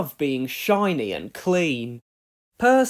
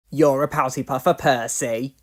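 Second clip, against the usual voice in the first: teasing; 3 semitones lower, 5 dB louder than usual. Acted. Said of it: "teased James".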